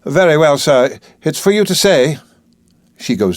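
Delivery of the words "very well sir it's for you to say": higher, a touch of grudging compliance; a mildly put-out servant giving in; lightly voiced reluctant housekeeper; half-resigned housekeeper. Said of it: "only half resigned to her task".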